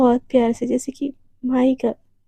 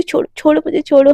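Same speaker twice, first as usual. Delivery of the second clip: push away; 5 dB louder, faster than usual. Acted. Devika pushing Radhika away.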